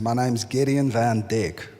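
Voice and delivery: slow, mild American accent; lightly put-on American accent. Shown as a demonstration. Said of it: "say my name in a very American accent".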